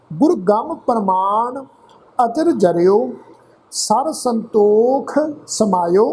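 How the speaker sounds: slow, measured Gurbani reading with drawn-out word endings; scripture recitation. Shown as a demonstration. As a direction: recite phrase by phrase, pausing between.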